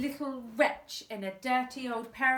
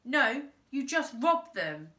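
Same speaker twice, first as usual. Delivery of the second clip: cheeky retort; 3 semitones higher, 5 dB louder than usual. Acted. Boy cheeks boss.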